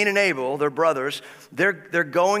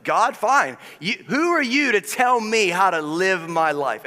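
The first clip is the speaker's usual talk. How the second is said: a touch of defiant anger, a bit louder; mock-furious retort at God; understated angry defiance; infuriated Cain; 4 semitones higher, 3 dB louder than usual. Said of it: "Cain is infuriated".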